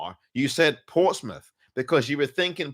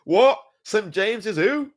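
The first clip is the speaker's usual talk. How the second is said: mock surprise; 8 semitones higher, 4 dB louder than usual. Mock confusion at wrong name.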